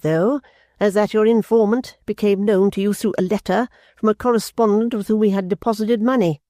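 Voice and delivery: pressing her point with icy control; stern invalid mother. A narrator's reading. Mother voiced in story.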